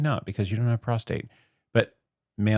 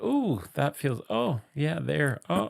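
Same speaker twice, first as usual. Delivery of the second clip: higher, teasing imitation of enjoyment; mock pleasure; 4 semitones higher, 4 dB quieter than usual. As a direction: play-act little oohs of pleasure. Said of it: "So when you were like".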